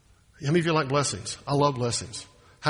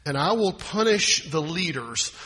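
slow, measured Bible reading; solemn pulpit reading; scripture reading; slower than usual. Acted. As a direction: read the verse slowly and gravely.

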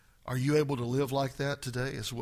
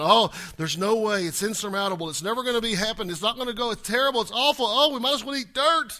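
rising, louder mock whine of despair; a mock wail that it is all hopeless; mock despairing whiner; 4 semitones higher, 4 dB louder than usual. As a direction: ham up a hopeless complainer, climbing higher. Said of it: "looking at obstacles in life and going".

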